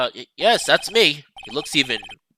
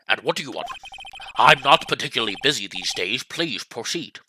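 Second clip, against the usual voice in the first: lower, self-important senior lawyer; pompous old lawyer; 3 semitones lower, 4 dB quieter than usual. Acted. Old lawyer sizing up the young visitor, lower and pompous. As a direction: look down on the young man.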